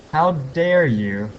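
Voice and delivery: slow, drawn-out mock outrage; mock indignation. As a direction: play at being offended, stretching each word. Retells scolding a drunk stranger.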